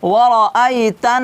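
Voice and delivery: slow drawn-out recitation; Quran recitation. Shown as a demonstration. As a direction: recite it slowly, stretching the vowels. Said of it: "এক আলিফ টেনে পড়তে হবে". (ধীরে টেনে তিলাওয়াত)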